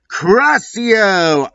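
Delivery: high, sharp curse yell; spell shout. Acted. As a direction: fire off the spell. Casting a curse.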